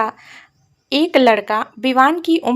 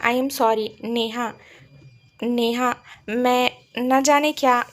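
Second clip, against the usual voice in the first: tender apology. Acted. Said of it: "अंकुश इतने प्यार से बोला".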